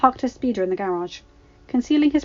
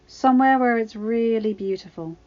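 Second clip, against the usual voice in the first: put-on young woman voice; 2 semitones higher, 3 dB louder, slower than usual. Ahsoka's reply voiced by reader.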